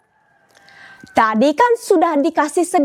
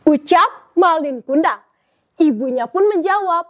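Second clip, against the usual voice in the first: storytelling narration. Acted. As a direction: tell it like a storyteller on stage.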